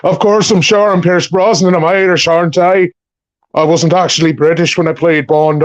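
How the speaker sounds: light Irish accent, impression held throughout; Irish lilt, playing the actor; a hint of an Irish Pierce Brosnan accent. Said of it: "Are you sure you're Pierce Brosnan?".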